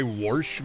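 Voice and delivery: Warsh with an r, rising; Warsh, Midwest style; Iowa warsh. Shown as a demonstration. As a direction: ask it back: Warsh?. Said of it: "people who say".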